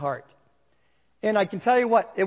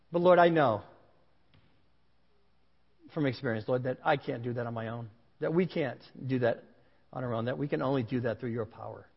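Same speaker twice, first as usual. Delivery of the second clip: closing prayer; 3 semitones lower than usual. Real, not acted. Pastor prays over the congregation, earnest and sincere. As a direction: pray it sincerely over the room.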